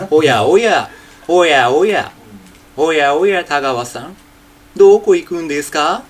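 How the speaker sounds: only the speaking style of Takiguchi Junpei, own plain voice; teacher demos the lilting Takiguchi delivery in his natural voice; Takiguchi Junpei manner. Shown as a demonstration. 滝口順平の話し方だけ、地声で. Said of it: "これ、話し方だけは滝口順平です".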